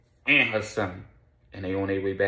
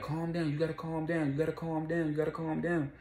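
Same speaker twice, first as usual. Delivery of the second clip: calming her; 8 semitones higher than usual. Retold or imitated. Charlie urging Destiny on the phone, mock soothing. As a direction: talk her down gently. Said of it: "I was like".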